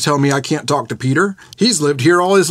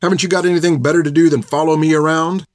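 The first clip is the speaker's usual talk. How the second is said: angry outburst; 2 semitones higher than usual. Acted. Finn yells at the old nun Hilda, furious. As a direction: let the insults pile up, hotter and hotter. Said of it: "as she'd yelled at her".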